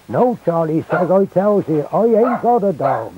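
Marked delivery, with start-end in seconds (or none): 0.1-0.4 high-pitched Hampshire protest; broad Hampshire accent. Retold or imitated. Villager caught out still denies it, high Hampshire accent. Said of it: "in his broad Hampshire accent". 1.1-3.1 much higher, insistent Hampshire dialect; broad Hampshire accent. Retold or imitated. Caught-out villager insists to the sergeant, high Hampshire accent. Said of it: "in his broad Hampshire accent".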